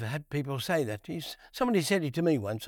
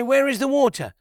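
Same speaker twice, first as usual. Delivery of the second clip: complaining cry; 7 semitones higher, 5 dB louder than usual. Retold or imitated. Thirsty people demand water.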